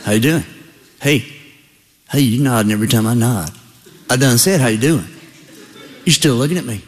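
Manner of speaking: lightly voiced, low Southern buck; a hint of a good-old-boy deer; gentlemanly Southern deer. Deer talking to his mirror image, low Southern voice. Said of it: "he's a gentlemanly Southern deer".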